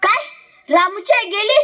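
stunned questioning repeat; acted shock at the news. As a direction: react in disbelief, lifting into a question. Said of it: "गोरे गुरुजींना धक्काच बसतो".

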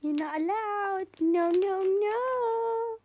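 laughing while being tickled. Real, not acted. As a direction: squirm and protest through tickles. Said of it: "don't tickle me".

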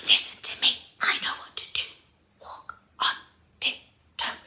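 urgent-to-follow stage whisper, in time; Pamina. Shown as a demonstration. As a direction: whisper it as a secret call to follow. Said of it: "get into the actual character of Pamina".

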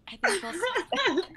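slow, high, stretched mock sulk; mock huffy. Real, not acted. Refusing the role after being bulldozed, a hammed-up slow sulk. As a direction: drag it out like a playful pout. Jokingly refusing to take part.

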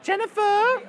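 high, loud call for someone. Real, not acted. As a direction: holler the name to summon them. Calling absent colleague over.

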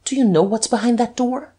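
sudden high-pitched question; spring the question on him sharply; abrupt, pointed challenge; snapped out. A narrator's reading. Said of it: "and then he snapped out".

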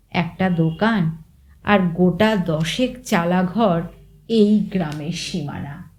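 plain reading voice

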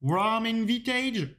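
slow English list read with a real French accent. Real, not acted. Presenter reading preset names to viewers, French-accented English. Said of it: "désolé pour mon accent anglais qui est vraiment horrible".

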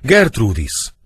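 loud, high cry of the name; acted anguished shout; horrified stage howl. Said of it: "Ordítva rogy mellé, midőn meglátja".

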